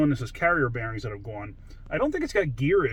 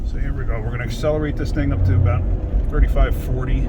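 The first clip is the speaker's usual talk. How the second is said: raised voice; 10 dB louder than usual. Real, not acted. Talking while driving the truck.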